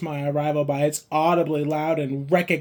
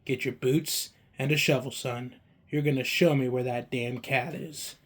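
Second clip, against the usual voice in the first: softer, quiet icy command; cold; 3 semitones lower, 5 dB quieter than usual. Acted. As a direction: hand down the order coldly, no warmth at all. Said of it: "very coldly told me".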